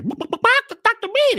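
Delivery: high, very slow call of the name; drawn-out calling. Acted. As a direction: stretch the name out high like something calling you. Chickens calling in dream.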